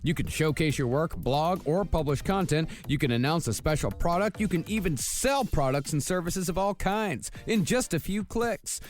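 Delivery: bright podcast ad read over music. Acted. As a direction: sell it like a sponsor spot. Reads a sponsor ad.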